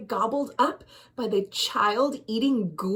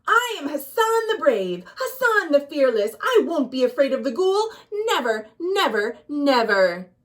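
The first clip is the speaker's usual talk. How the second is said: a mildly raised heroic cry, each never landing hard; brave shout. Acted. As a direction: call it out like a boy proving he is brave. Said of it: "shouted as loud as he could".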